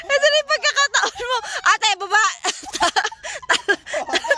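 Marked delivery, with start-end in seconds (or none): 0.1-1.4 higher, giggling tease; laughing tease. Real, not acted. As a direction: tease again through giggles. (tumatawang panunukso, mas mataas)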